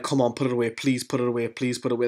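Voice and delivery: soft, under-the-breath mock pleading; imitated crowd plea. Stadium crowd willing the penalty in, hushed imitated pleading. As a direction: quietly plead on the crowd's behalf. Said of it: "The whole place in the stadium's like".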